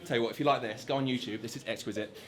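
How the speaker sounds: low, soft museum-guide murmur; hushed gallery guide. Pretend. Guide showing off the Mona Lisa, hushed and low. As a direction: murmur it like a reverent tour guide.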